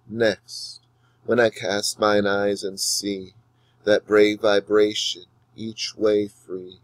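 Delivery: slow, measured recital with long pauses; poem reading. Shown as a demonstration. Teacher reading a poem aloud to students, slow and measured. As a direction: let each line of verse breathe slowly. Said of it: "Now listen to how I read the poem".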